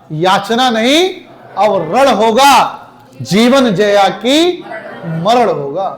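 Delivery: slow, defiant declaiming of "याचना नहीं"; heroic poem recitation. Shown as a demonstration. Teacher showing class how veer ras should sound, slow defiant declaiming. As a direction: hurl each line like a war cry. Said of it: "क्रोध की स्थिति हो तो क्रोधित होकर बोलो".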